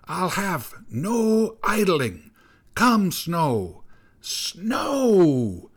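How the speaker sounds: high, commanding storm-witch cry; imperious high-pitched snow hag; old snow woman. A narrator's reading. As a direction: call up the snow, drawing words out. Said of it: "came the old snow woman's voice".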